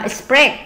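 "expect" stressed on its second syllable, pect. Shown as a demonstration. Teacher confirming word stress to pupil, second syllable stressed. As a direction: put the weight on the end of "expect". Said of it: "nhấn âm hai".

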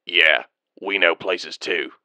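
slow, low, deadpan clone sergeant; unimpressed soldier mocking back; dry retort. Clone sergeant answering dryly.

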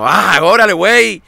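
loud, high-pitched scolding in a mock Mexican voice; acted loud telling-off; imitated Mexicans. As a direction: berate them like an exasperated Mexican smuggler. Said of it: "dicen los mexicanos".

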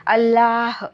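long, loud cry; all-out shout. A narrator's reading. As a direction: gather your strength and shout. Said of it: "होती नव्हती तितकी शक्ती एकवटून ओरडलो". (सगळी शक्ती एकवटून मारलेली आरोळी)

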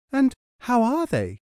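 high, eager questioning woman; eager village woman. Acted. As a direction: ask like a kind, simple wife.

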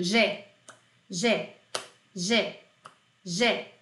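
"Gé" said slowly and separately, like a drill; drill repetition. Shown as a demonstration. Teacher leads a repeat-after-me drill, slow and steady. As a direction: say "Gé" for students to echo. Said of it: "Repete comigo".

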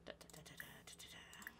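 very soft, low string of syllables; idle vocalizing. Real, not acted. Player waits to chat with Kevin, idle soft vocalizing. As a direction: fill the wait under your breath. Idle filler sounds while clicking.

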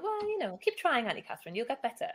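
high squeak on the first words, then a lightly voiced little girl; a hint of a child talking down to a grown-up; patronising six-year-old niece. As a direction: play the kindly small niece consoling her auntie. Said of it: "she sort of went".

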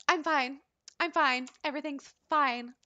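acting composed, voice pitched slightly up; regained composure. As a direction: insist on being composed, in short separate phrases. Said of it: "back in her composure".

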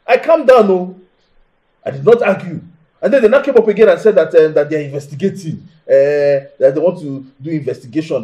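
indignant venting to a friend; worked up. Acted. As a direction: complain heatedly, getting carried away. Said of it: "You're getting too worked up".

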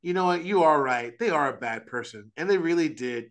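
lightly put-on coddling sympathy; mock placating. Pastor coddling someone who feels wronged, mock placating. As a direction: humour them with exaggerated agreement. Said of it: "I can't placate them and be like".

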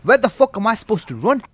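loud, high-pitched bewildered complaint; exasperated outburst. Real, not acted. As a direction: protest in frantic frustration. Lost and killed in game.

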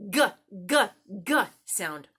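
G as a short hard guh, repeated; hard g sound. Shown as a demonstration. Teacher modelling the G sound for kids. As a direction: clip the G as guh guh guh. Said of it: "It makes a".

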